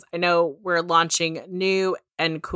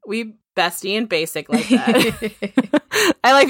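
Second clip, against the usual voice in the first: laughing; slower than usual. Real, not acted. Jokes about matching earbuds.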